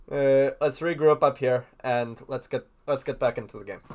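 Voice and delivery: mock pep talk in a clumsy Swedish accent; bad Swedish accent. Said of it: "That was a really bad accent".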